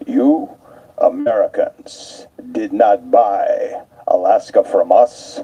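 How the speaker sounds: lightly put-on Russian accent, slow and cold; a hint of a stern Russian woman, measured and icy. Lightly voiced Russian passenger scolding the guide in a Russian accent. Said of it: "in her icy Russian accent".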